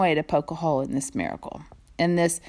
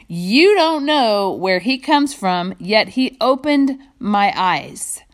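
sarcastic; slower than usual. Acted. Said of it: "sarcastic remark".

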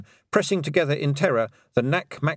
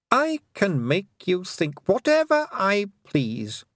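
high, mocking queen's voice; cold queen, slow and sneering; taunting fairy queen; 6 semitones higher than usual. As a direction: toy with the child. Queen's long taunting speech.

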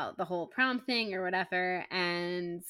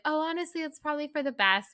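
acted Maggie quote; 7 semitones higher than usual. Voicing Maggie's reply.

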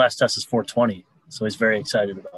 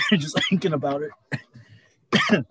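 laughing; 5 semitones higher, much slower than usual. Real, not acted. Laughing after choking on water.

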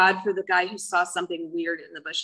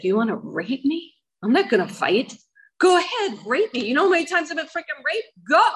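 higher, louder defiant challenge; defiant dare; 7 semitones higher, 3 dB louder than usual. Retold or imitated. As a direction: throw it back at them, daring them. Acts out defying an attacker.

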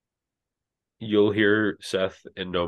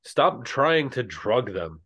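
higher, slow mock yell; mildly raised scolding shout; yelling back; 4 semitones higher, slower than usual. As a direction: call back a drawn-out objection. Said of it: "Longin will yell back".

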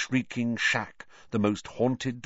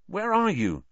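high-pitched, pinched question; muttering from mouth's corner; 11 semitones higher than usual. A narrator's reading. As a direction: ask sideways in a raised voice. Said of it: "Ron kept muttering out of the corner".

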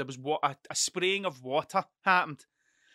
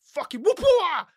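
imitating a boastful fighter; lightly voiced tough guy; 9 dB louder than usual. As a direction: play a lightly voiced hard man boasting. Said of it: "he was a Scottish guy".

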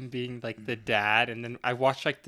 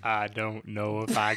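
Morgan Freeman. Acted. Co-host trying to stay in character, Morgan Freeman impression. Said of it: "talk like Morgan Freeman for the rest of the episode".

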